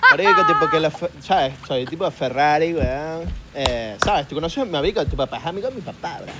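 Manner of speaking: name-dropping bro from Valencia, Venezuela; Valencia, Venezuela accent. Acted. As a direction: parody a Valencia rich kid. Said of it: "Unos de Valencia". (acento valenciano venezolano)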